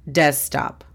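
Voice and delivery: desktop said the English way, DESK-top; English pronunciation. Shown as a demonstration. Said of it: "la pronunciación fonética es". (pronunciación en inglés de desktop)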